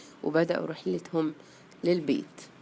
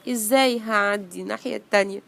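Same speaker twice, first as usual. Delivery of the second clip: plaintive, higher storybook wail; sad; 3 semitones higher, 4 dB louder, much faster than usual. Acted. Bee stuck before the stream, sad. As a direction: lament it helplessly, mildly hammed-up.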